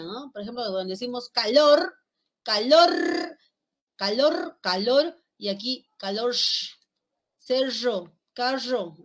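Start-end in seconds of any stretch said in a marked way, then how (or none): 2.4-6.3 calor with a hissing Andean r at the end. Shown as a demonstration. Teacher demonstrating the Andean r in calor. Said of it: "sería la R andina". 8.3-9.0 carro with a buzzing zh-like r; Andean r. Shown as a demonstration. Teacher demonstrating the Andean r in carro. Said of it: "esta es la R andina".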